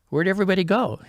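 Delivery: high, loud puzzled call; bewildered. Retold or imitated. Racer back at the start line, bewildered. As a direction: act out sudden bewilderment, pitch jumping up.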